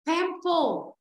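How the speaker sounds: Temple drawn out with weight on its last part, "pu"; stress on "pu". Shown as a demonstration. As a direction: land on the "pu" sound in Temple. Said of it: "nó rơi vào chữ pu". (Temple nhấn vào chữ "pu")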